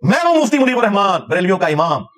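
mock self-introduction of a sect's leader; Mufti Muneebur Rehman. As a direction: announce yourself as the leader, pitch falling at the end. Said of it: "तुम्हारा काम है".

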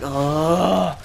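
long, drawn-out mock groan; demonstrated moan. Shown as a demonstration. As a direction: let out a pretend moan of dismay. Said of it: "just be like a moan".

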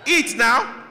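loud, high "Eat now" shouted; loud trap warning. Retold or imitated. Mother warning her child, loud and high. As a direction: bark "Eat now" as a threat. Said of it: "that "eat now" is a trap".

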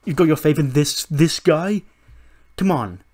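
loud, rising disbelief; incredulous scoff. Acted. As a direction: protest as if it's absurd. Roode scoffs at faith in Gulak.

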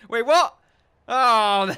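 high, loud startled what; real shock. Real, not acted. Player seeing sudden prison deaths, high and shocked. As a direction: jolt up in disbelief.

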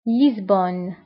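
French name for لشبونة with z and no final vowel; French pronunciation. Shown as a demonstration. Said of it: "بالفرنسية أيضًا".

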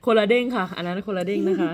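laughing. Real, not acted. Laughs at the bouncy chant.

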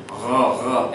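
r, r said deep in the throat like gargling; gargled French r. Shown as a demonstration. Teacher demos a gargled French r to students. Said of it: "as if you are gargling".

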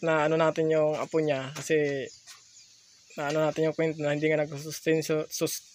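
lisping through missing front teeth; gap-toothed, slurred speech from missing front teeth. Real, not acted. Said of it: "bungi ako eh for today's video".

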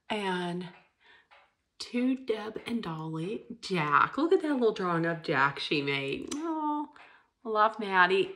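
soft, choked-up voice holding back tears; teary, choked up. Real, not acted. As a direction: speak through quiet tears. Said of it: "I said I'm not gonna be crying anymore".

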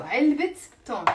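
"علبة تون" as 3elbit ton, t sounded; linking t pronounced. Shown as a demonstration. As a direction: sum up "علبة تون" with the two words linked by t. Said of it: "pronounce the ت مربوطة".

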